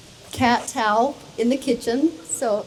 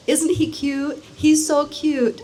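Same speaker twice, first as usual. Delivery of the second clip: doting cooing; 4 semitones higher, slower than usual. Retold or imitated. Quoting bride doting on her cat.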